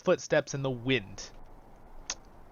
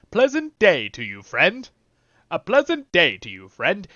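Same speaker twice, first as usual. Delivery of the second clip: louder, cheerier hobbit greeting; repeated hobbit line; 2 semitones higher, 7 dB louder than usual. Retold or imitated. Repeating the hobbit's line with louder hobbit cheer. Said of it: "Let's hear that one more time".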